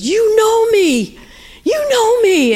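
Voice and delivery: high, drawn-out cry of recognition; retold outburst. Man slamming the table at the woman who told his life, astonished outburst. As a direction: exclaim it high, stretching the words.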